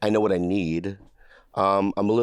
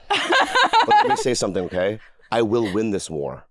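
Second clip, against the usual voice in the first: mock grandiose. Host declaring mock war.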